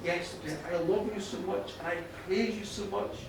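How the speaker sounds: subdued, heartfelt apology and thanks; tender praise. Acted. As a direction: speak gently to a lost wife. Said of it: "he praised her more than ever".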